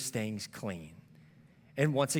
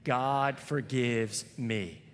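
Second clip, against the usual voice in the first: very slow, each word spaced for the crowd to follow; slow call-and-response affirmation; slow unison recital; much slower than usual. Shown as a demonstration. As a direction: lead the congregation through it word by word. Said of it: "say it one more time together".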